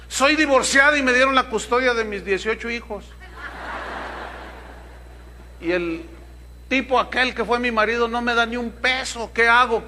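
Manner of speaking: hammed-up anxious mother; desperate widow. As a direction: beg the pastor for an answer. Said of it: "dirá alguna".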